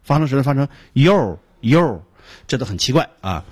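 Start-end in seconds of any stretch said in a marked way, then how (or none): 0.9-2.0 "yo" drawn out with the tongue curled back; odd, r-coloured "yo"; curled-tongue mispronunciation. Shown as a demonstration. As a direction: say "yo" slowly with a retroflex r colour. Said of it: "还有的人把它发成卷舌的".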